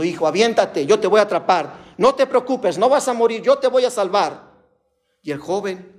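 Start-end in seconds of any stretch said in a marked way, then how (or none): 0.0-4.5 mild shout rising in pitch; retold plea, climbing higher without much volume; imitated father crying out. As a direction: call out urgently as a rescuing father. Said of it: "su papi clamaba diciendo".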